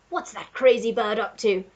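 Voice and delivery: put-on puzzled blustering old Duke; old Duke exclaiming at the bird; Duke's cry. A narrator's reading. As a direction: bark it out, baffled. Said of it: "cried the Duke".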